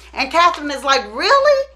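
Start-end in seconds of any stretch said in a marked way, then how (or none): 1.1-1.7 high, loud offended disbelief; imitating a shocked, insulted mother; mock incredulous. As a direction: act affronted at being doubted. Acted disbelieving reply to accusation.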